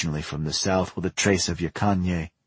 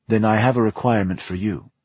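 firm and stern, a bit louder; 5 semitones higher, 5 dB louder than usual. A narrator's reading. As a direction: lay down the demand sternly. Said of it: "said Dominika sternly".

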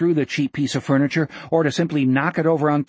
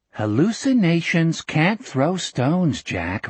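slow, mildly condescending; measured, over-patient explaining; patronising explanation; 3 semitones higher, slower than usual. Acted. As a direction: spell it out as if to someone very dim. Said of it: "as if explaining some simple but vital fact".

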